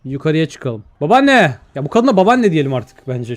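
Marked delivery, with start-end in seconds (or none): 1.0-1.5 higher-pitched call to grandma. Acted. Calls out to the grandmother.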